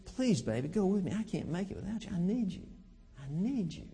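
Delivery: soft, gentle plea to a wife; a husband gently pleading with his wife; mock pleading. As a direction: beg her tenderly to come along. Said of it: "The attitude is".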